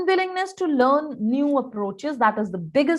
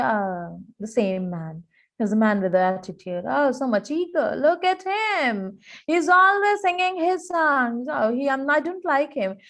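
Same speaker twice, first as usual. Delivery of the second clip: prejudiced grumble. Retold or imitated. Mocking the team leader.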